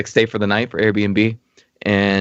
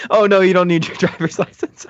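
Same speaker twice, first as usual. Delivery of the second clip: mock clerk voice; 7 semitones higher than usual. Mocking the sketchy rental clerk.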